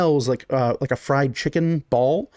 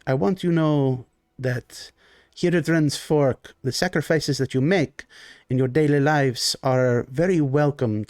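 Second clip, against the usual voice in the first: lightly voiced genteel Baron. GM as the Baron greeting his guests: lightly voiced genteel host.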